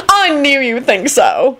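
high, slow, delighted gush; beaming. A narrator's reading. Vampire pleased by Neville's approval, beaming. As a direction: say it with an audible smile. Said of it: "he beamed".

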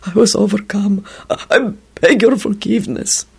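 wretched whimper. A narrator's reading. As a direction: stammer a miserable plea. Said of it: "it whimpered wretchedly".

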